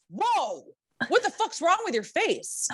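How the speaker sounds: mock a blunt drunk guy staring at her. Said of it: "and he goes".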